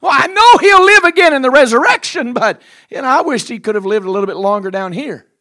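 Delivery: high, loud grieving protest; lamenting sister. Acted. Sister tells Jesus she wished Lazarus lived longer, loud lament. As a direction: plead through the grief.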